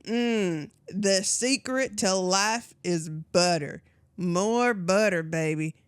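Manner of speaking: Paula Deen impression. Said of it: "I'm Paula Deen".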